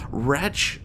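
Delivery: high, loud cry of anguish; cried out. Acted. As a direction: hurl the word out in despair. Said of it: "I cried".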